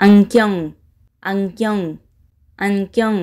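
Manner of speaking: "Анкён" in isolation, long pauses between; pronunciation demo. Shown as a demonstration. Teacher has learners pronounce together, "Анкён" modelled with long gaps. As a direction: model "Анкён" three times, leaving room to repeat. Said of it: "Якҷоя талаффуз мекунем".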